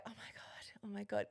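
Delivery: excited breathless whisper. Retold or imitated. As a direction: whisper it giddily. Retold crush excitement whispered.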